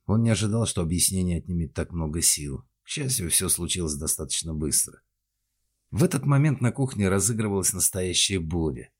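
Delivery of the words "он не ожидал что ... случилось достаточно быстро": usual speaking voice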